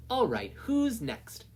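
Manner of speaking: high, slow sing-song; sing-song call. Acted. Midnight calling for the next student, high and slow. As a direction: drawl it out playfully.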